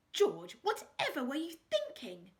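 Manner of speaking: wife crying out at her husband's folly. A narrator's reading. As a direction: wail the question at George. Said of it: "cried Lady Hastings".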